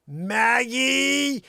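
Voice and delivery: very high, loud scolding yell; angry shout. Retold or imitated. Wife yelling at the dog, furious shout. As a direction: call the dog out in fury. Wife yells dog's name.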